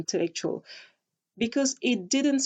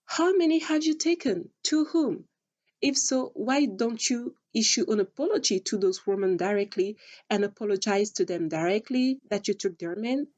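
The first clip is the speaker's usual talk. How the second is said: confused questioning. Retold or imitated. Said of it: "So I was confused, like".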